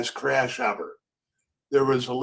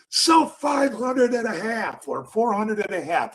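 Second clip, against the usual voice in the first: high-pitched broker's order call; mock holler to the whole pit; imitated pit call; 8 semitones higher than usual. Broker offers halves to the locals, imitated high pit call.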